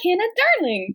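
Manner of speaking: high-pitched Midwestern "Hannah, darling"; Midwest accent. Acted. Imitating how they address Hannah, Midwest accent. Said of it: "how they say it in a Midwest accent".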